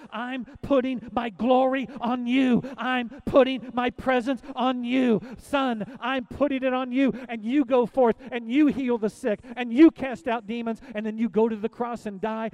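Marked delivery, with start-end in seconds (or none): 0.1-7.1 slow, solemn voice of God, lightly voiced; a hint of the Father's voice, slowed; God speaking. Pastor voicing God the Father slowly to the congregation. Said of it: "God the Father said".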